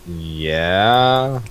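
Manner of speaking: long drawn-out dopey yeah; a hint of a lumbering brute's yeah; Little John voice. Shown as a demonstration. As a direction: stretch the yeah like a slow giant. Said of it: "That's what Little John sounds like".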